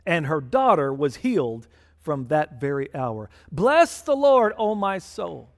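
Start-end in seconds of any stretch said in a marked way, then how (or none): 3.5-5.5 fervent exclamation. Real, not acted. Preacher exclaims psalm.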